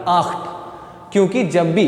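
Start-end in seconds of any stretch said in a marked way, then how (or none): 0.1-0.5 आख्ट with "kha" sound in the middle; German "ch" sound. Shown as a demonstration. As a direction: show the "kh" in आख्ट. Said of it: "बीच में खा की आवाज़ आ रही".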